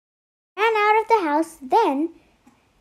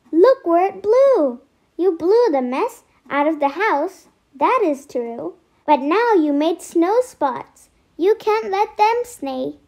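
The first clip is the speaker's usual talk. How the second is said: lightly raised, exasperated scolding; exclaiming; 4 dB louder than usual. Acted. The boy tells the little cats off about the snow spots, mildly raised. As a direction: call out at the mess, a touch louder.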